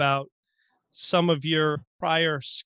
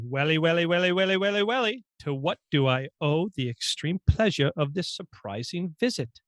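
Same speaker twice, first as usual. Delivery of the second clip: lightly voiced Alex from Clockwork Orange; Alex impression. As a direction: play the sly menacing droog. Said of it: "last one".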